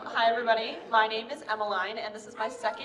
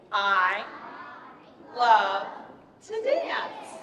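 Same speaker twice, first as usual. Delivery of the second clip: word-by-word demo; 4 dB louder, much slower than usual. Shown as a demonstration. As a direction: lead a group to copy each word. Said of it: "try that one more time".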